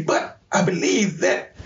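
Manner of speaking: real tears creeping into the words; slowed, holding back a sob; choked up. Real, not acted. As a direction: voice catching as he starts to cry. Emotional memory of apologizing to son.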